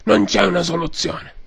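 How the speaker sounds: hoarse mock mafia boss; Godfather voice. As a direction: preach respect like a don. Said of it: "signor Padrino".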